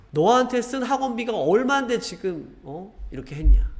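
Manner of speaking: high, sharp reproach about the money spent; scolding parent. Retold or imitated. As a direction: throw the tuition cost in their face. Parent scolding over tuition.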